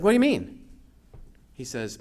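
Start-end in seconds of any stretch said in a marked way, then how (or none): 0.0-0.6 high, louder disbelieving what; a sharp jump up in disbelief; mock shocked question; incredulous. Retold puzzled reply.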